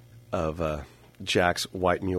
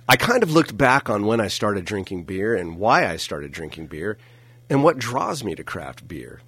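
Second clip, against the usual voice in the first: announcer voice. Acted. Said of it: "I'm turning on the announcer voice".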